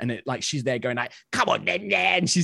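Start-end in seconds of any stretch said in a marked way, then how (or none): 1.3-2.2 goofy, silly, high, taunting orc voice. Retelling a friend's battle taunt: imitating a silly orc voice. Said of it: "a silly orc voice".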